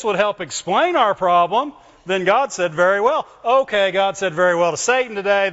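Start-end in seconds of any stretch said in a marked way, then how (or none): 2.7-5.5 mocking the belief; mock it with irony; sarcastic. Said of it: "I'm being sarcastic".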